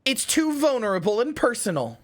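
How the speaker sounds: high cute streamer voice, dramatic; dreamy anime speech, slow and grand. Acted. Dramatic mock monologue about dreams.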